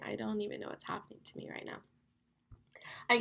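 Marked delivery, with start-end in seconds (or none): 0.0-1.8 tired aside. Real, not acted. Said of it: "I'm literally yawning".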